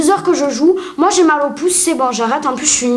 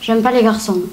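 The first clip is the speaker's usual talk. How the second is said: put-on little girl sketch voice; 4 semitones lower than usual. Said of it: "dans un sketch de Florence Forestier".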